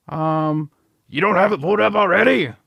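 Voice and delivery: irritated, impatient boss voice, pitched very high. A game streamer voices a boss questioning an employee: impatient boss character. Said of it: "Yes, sir. What can I do for you, sir? / The damn thing went out. That's what you could do for me. Son of a bitch".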